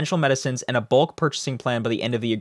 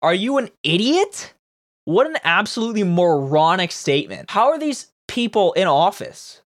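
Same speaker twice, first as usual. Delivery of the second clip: higher-pitched, exasperated outburst; indignant disbelief; 5 semitones higher than usual. Real, not acted. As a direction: react appalled at sheer stupidity. Indignant reaction to the quoted statement.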